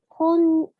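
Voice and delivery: こん- cut off short, high and loud; wrong clipped konnichiwa. Shown as a demonstration. Teacher shows the mistake, high and loud. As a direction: break off こん- as the wrong way. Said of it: "Be careful not to pronounce it as".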